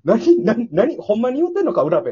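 loud incredulous stammer, imitated; stunned disbelief. Teller's friend shocked at M digging up balls, loud imitated disbelief. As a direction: retell the shock at the buried balls. Stunned reaction to sand pit.

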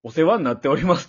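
phone greeting with a Hakata lilt, rising at the end; 博多弁訛り. Retold or imitated. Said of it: "博多弁の影響で、". (博多弁の抑揚で語尾を上げる)

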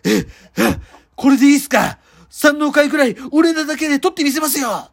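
rough Kansai yakuza threats, barked; menacing gangster quarrel; yakuza movie voice. Acted. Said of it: "ヤクザの映画って".

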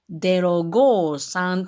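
lightly imitated Wakayama auntie reading out digits, デロ with d; a hint of a local auntie saying デロ五三. Speaker retelling an auntie reading out a phone number, light Wakayama accent. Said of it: "おばさんが言うてくれる時に".

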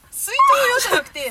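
high, slow cutesy voice; cute dialect. Retold or imitated. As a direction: coo it sweetly. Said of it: "あんな可愛い言い方ばせんもん". (可愛い子ぶった言い方)

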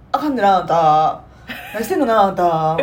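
mild Osaka auntie scolding; loud nosy osaka auntie. Retold or imitated. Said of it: "頭揺さぶって目つぶりながら".

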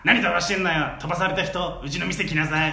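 loud sassy auntie scolding; brassy onee retort, arms on hips; loud nosy osaka auntie. Acted. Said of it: "お姉ツッコミ".

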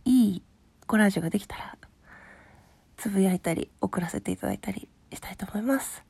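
rough, just-woke-up hoarse voice; hoarse from just waking up; hoarse morning voice. Real, not acted. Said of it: "寝起きで声がガサガサでごめんなさい".

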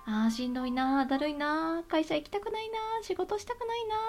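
tired, reluctant sighing voice; weary grumbling. Retold or imitated. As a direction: grumble it like you dread work. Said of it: "と思いながらもですね".

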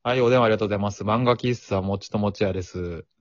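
flat, offhand shop clerk; curt clerk. Pretend. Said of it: "店員がこの態度だったらそうなるな".

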